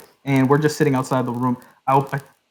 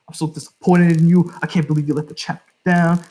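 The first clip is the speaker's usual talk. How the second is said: mock parental disappointment, slightly raised; disappointed dad; 4 semitones higher than usual. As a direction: lecture him like a let-down dad. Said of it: "he's just dadding this guy".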